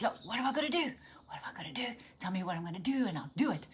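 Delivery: mildly exasperated retold plea; wrestling with God. Impatient doer begging God for a task, wrestling. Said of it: "I was wrestling with him".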